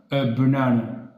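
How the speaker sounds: a banane said slowly, falling on a; slow pronunciation demo. Shown as a demonstration. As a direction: drag out a banane. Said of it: "mais on dit".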